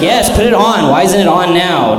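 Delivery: can't wait to watch it; eager yes. Pretend. Eager reply to bin Laden.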